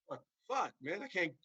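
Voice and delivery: high-pitched mock frustration, half-acted; imitating someone fed up at being interrupted; mock angry outburst. Brian cut off mid promo, retold with mock frustration.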